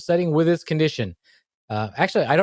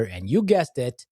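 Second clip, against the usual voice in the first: slow dramatic reveal; much slower than usual. Acted.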